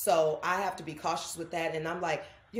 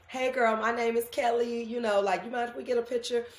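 polite fan request; 5 semitones higher, 4 dB louder than usual. Shown as a demonstration. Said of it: "saying this out loud so everybody can hear".

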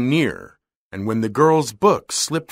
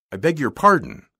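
apologetic; 2 semitones higher than usual. A narrator's reading. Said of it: "apologized the young man".

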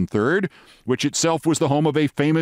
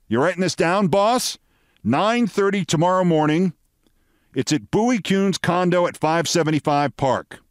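showy, higher-pitched delivery; laying it on thick; 4 semitones higher than usual. Retold or imitated. Reporter giving his boss the scoop, laying it on thick. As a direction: announce each detail with relish. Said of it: "so I laid it on thick".

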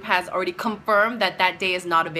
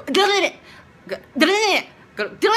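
much higher, louder urgent go; urging go; 10 semitones higher, 5 dB louder, much slower than usual. Retold or imitated. Cut in on the arguing classmate, loud urgent go. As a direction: push through her talking over you. Trying to talk over her.

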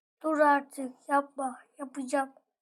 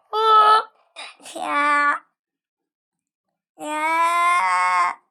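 shout; 8 dB louder, much slower than usual. Real, not acted. Frustrated at game.

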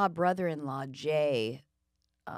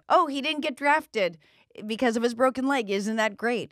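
higher and louder, faster cheerful news; delighted neighbors; 5 semitones higher, 4 dB louder than usual. Retold or imitated. Neighbors cheering that the son escaped the draft, bright and excited. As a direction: sell the good news brightly. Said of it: "And they say".

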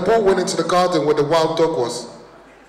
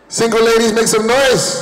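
higher, louder call to the crowd; crowd hype; 5 semitones higher, 4 dB louder than usual. Acted. Comic calling out to women in the audience, hype voice. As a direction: rouse the single ladies.

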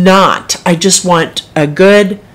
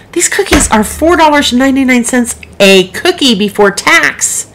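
indignant; 6 semitones higher than usual. Retold or imitated. Outraged at a cookie price.

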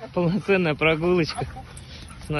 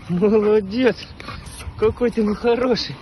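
talking to a dog; 4 semitones higher than usual. Real, not acted. Praising puppy.

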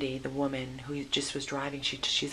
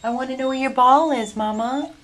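loud, much higher sing-song; 10 semitones higher, 16 dB louder than usual. Real, not acted. Rescuer teasing the puppy in loud high baby talk. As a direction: coo up high at the dog.

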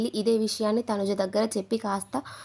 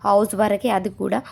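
mock-angry tirade, louder; retold tirade; 6 dB louder than usual. Madhuri retold blasting the captain, mock-angry and louder. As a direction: hammer the captain with raised voice. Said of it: "Madhuri వాయించేసింది".

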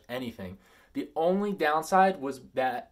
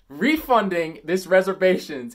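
barely contained anger; 5 semitones higher, 9 dB louder than usual. Real, not acted. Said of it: "trying not to punch a hole".

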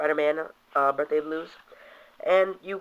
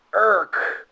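comic grunt; 5 semitones higher, 5 dB louder than usual. Retold or imitated. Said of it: "Green Goblin's like".

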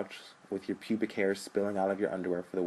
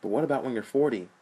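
desperate; 4 semitones higher, 4 dB louder than usual. Acted. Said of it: "Sean asked desperately".

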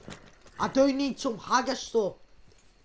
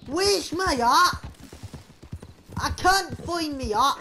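raised, louder, drawn-out question; exclaiming; 4 semitones higher, 4 dB louder than usual. Pretend. Player hunting for a lost hat, calling out. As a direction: call out slowly for the lost item.

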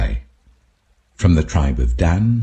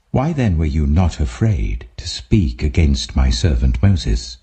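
lower, solemn voice of God; voice of the Lord; 4 semitones lower than usual. Acted. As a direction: speak as the Lord, low and grave. Voice of the Lord speaking.

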